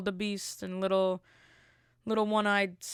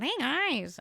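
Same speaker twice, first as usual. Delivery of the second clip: lightly voiced Kermit, pitched up; a hint of Kermit greeting; 6 semitones higher than usual. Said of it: "He said".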